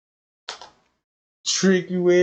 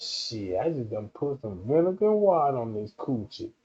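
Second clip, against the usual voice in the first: mock woman scheming; 5 semitones lower, 4 dB quieter than usual. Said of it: "Oh, he wanna behave himself?".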